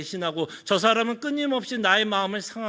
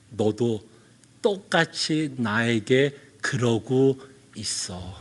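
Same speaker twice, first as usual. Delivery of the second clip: God's rebuke; 11 semitones lower, much slower than usual. Retold or imitated. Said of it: "하나님이 저한테 이렇게 말씀하는 것 같아요".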